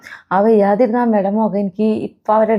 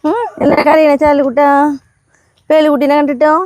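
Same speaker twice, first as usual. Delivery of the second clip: higher, sing-song coaxing voice for the pet; talking to a pet; 4 semitones higher than usual. Real, not acted. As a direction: coo at the little animal to comfort it.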